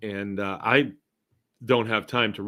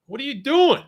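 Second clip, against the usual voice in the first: high, loud, baffled cop shout; mock cop; 6 dB louder than usual. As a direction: play the cop yelling at the driver. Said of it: "The cop be like".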